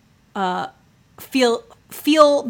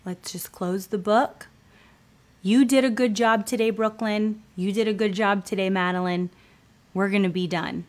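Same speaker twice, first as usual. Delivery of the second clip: gentle wrap-up. Retold or imitated. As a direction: close the book tenderly. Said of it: "it's okay to be like".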